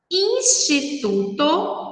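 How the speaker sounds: "instituto" slowly, in separate syllables. Shown as a demonstration. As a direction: sound out each syllable of "instituto". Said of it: "instituto tem quatro sílabas".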